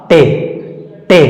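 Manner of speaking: "टे" said as a short te; teacher demo. Shown as a demonstration. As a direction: say "टे" like the letter a. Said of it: "इसका सही उच्चारण हो जाएगा". ("टे" साफ़ और छोटा)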